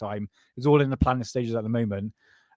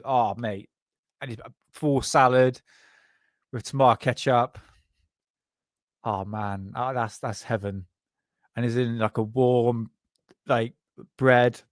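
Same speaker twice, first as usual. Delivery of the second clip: stoned voice; 3 semitones lower than usual. Real, not acted. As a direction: sound blissed out and stoned. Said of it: "I sound like a stoner now".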